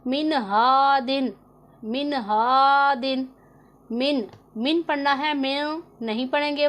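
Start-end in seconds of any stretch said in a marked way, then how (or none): 0.1-4.8 slow, drawn-out recitation of मिन हा दिन; Quranic recitation. Shown as a demonstration. Teacher reciting the example slowly for her students. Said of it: "किस तरह पढ़ेंगे".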